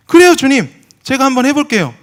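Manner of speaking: loud, high, cocky vow; defiant vow. Retold or imitated. Preacher retelling his proud answer to God, loud and cocky. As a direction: fire back at God with bravado.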